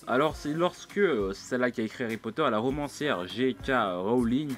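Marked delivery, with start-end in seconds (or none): 3.3-4.5 put-on « J K Rowling » prononcé lentement avec un accent anglais. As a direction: dire « Rowling » à l'anglaise, en prenant son temps. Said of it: "t'as vu l'accent anglais et tout". (nom de la romancière lâché avec un accent anglais)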